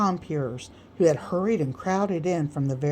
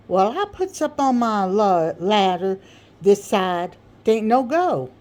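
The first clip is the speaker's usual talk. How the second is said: speechifying Sam; 3 semitones higher, 3 dB louder than usual. Acted. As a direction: hold the floor and hammer your point. Sam's long speech on persistence.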